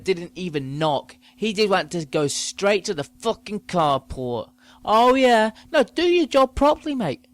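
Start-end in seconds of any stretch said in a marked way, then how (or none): 4.8-7.3 high, loud sneering jeer; mocking parcel man. Mocking the parcel man to the listeners, high and loud. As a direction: sneer at the lazy courier.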